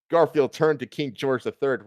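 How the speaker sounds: usual speaking voice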